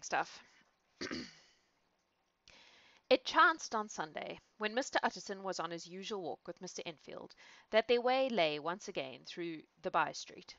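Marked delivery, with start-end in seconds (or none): 3.1-10.5 measured storybook reading voice; story narration. A narrator's reading. Reader opening a chapter, measured story narration. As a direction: read it like an old novel.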